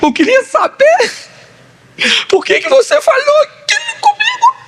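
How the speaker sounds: very high, screechy mock confrontation; hammed-up wife, pitched far above your own; imitating upset wife. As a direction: demand an answer in a shrieking wife's voice. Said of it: "a senhora foi falar com ele e falou assim".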